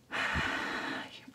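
long voiceless exhale; nervous sigh. Real, not acted. Vlogger waiting out the three minutes, sighing nervously. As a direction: blow out a nervous breath. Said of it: "I feel super nervous".

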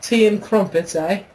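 cartoonish English accent. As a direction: ham up a high English tea voice. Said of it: "the English accent".

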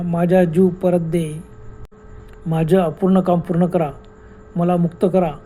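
slow ghostly voice. Acted. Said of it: "भयान हसण्याचा आवाज, मानवी आवाज".

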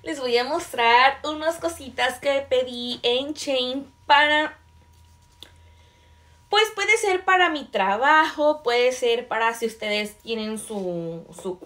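words broken by hiccups; hiccuping. Real, not acted. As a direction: talk through the hiccups. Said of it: "tengo hipo y no me lo puedo quitar".

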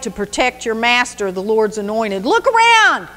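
nanny nanny boo boo, playground jeer; trash talking. Acted. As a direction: rub it in, mocking the guard. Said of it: "This is trash talking at its best".

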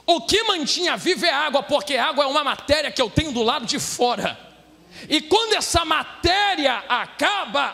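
full-force sermon delivery; impassioned Brazilian pulpit preaching; fervent preaching. Real, not acted. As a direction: preach it hard to the congregation, stretching key phrases.

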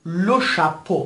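لو شاپو ending in a pure long O; slow لو شاپو, final letters as one O; EAU said as O. Shown as a demonstration. (لو شاپو با صدای اُ در پایان)

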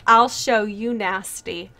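slow, low deadpan teacher line; a hint of a menacing teacher; teacher's line. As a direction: drop it slow and low like a threat. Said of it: "he comments right away".

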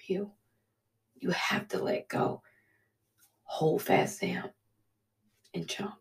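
soft, breaking whisper holding back tears; crying quietly through the words; tearful whisper. Real, not acted. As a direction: let it fall to a tearful hush. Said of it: "I'm sorry for crying".

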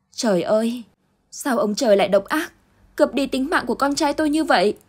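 high, rising cry of grief; grieving mother crying out to heaven; anguished lament. Acted. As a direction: rail at heaven in despair. Mother grieving her dead son.

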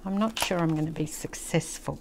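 ordinary talk

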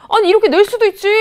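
높고 크게 터뜨리는 반박; 화내는 학생에게 발끈해서 되받아치기; 발끈한 항변. Acted. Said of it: "출제자한테 화를 내는 거야". (답답해서 높은 소리로 외치는 항변)

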